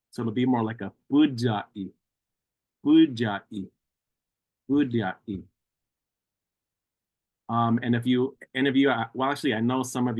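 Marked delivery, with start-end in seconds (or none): 0.1-5.4 budai with a dw-like U after the D; budai, D rounded into U; extra U after the D. Shown as a demonstration. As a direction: let a U sound follow the D in budai. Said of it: "an extra U sound following that D".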